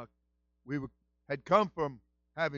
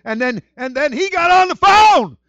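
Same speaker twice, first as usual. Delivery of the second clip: louder, happy, bubbling telling; excited; 5 semitones higher, 11 dB louder than usual. Real, not acted. Pastor telling church of friend's recovery, excited. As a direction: let the joy spill over. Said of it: "I'm just so happy and so excited".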